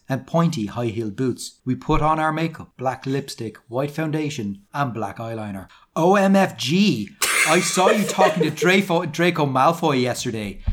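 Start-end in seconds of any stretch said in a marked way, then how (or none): 6.0-10.6 higher, louder gushing start, then easing; lightly hammed-up excitement; excited. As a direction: gossip with mock teenage excitement. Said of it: "she said excitedly".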